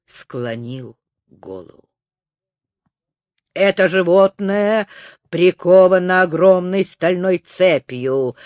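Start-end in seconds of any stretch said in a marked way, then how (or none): 3.5-8.4 a touch of grand solemnity; solemn announcement. Acted. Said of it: "торжественно объявил профессор".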